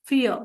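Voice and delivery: फियर said with F, short and falling; teacher repeating फियर; German vier. Shown as a demonstration. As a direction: model फियर crisply. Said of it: "उच्चार उसका होगा फियर".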